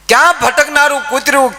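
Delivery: loud exclamation. Real, not acted. Loud repeat of refrain.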